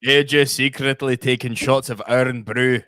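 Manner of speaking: badly faked Scottish accent; clumsy stab at a Scottish accent; terrible Scottish accent. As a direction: read it in a poor Scottish accent. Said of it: "That was a terrible Scottish accent".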